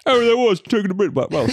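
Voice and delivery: high, hammed-up British imitation; mock the YouTuber's British voice; imitating the marble machine guy in a bad British accent; terrible British accent. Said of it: "that's a terrible accent".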